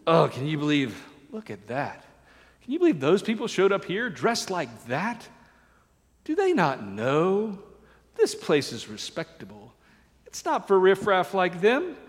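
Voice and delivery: a sniffy, snobbish churchgoer, lightly voiced; grumbling Pharisee. Preacher mimics grumbling Pharisees at the riffraff, mild sneer. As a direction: look down your nose at the newcomers. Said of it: "they grumbled".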